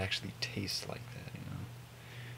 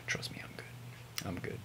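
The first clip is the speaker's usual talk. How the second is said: whispered reassurance; 2 semitones lower, 6 dB quieter than usual. Real, not acted. Reassuring viewers quietly.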